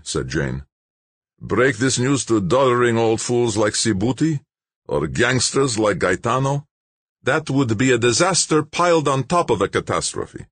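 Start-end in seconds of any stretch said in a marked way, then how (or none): 1.4-10.5 higher, louder, self-satisfied bureaucrat; smug official Malik. A narrator's reading. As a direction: announce the shutdown coolly, pleased with yourself. Malik's voice held.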